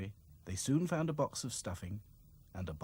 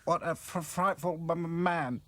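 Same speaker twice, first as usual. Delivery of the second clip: high, stuttering doll; stammering breathless; 8 semitones higher, 4 dB louder than usual. A narrator's reading. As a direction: catch your breath while stammering. Dolls catching their breath.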